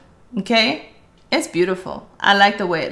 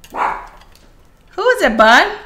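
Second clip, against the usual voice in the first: slow sing-song pet talk; 7 semitones higher, 3 dB louder, much slower than usual. Real, not acted. Asks pet who is there.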